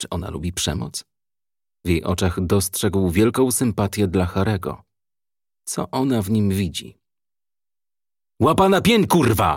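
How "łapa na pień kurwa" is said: yelled at full force, high pitch. Narrator reads a police commissioner ordering a frightened gangster, shouting. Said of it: "Krzyknął komisarz".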